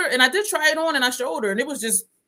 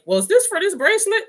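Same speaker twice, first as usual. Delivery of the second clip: confused clerk; 11 semitones higher, 5 dB louder than usual. Retold or imitated. Store clerk confused by identical bracelets.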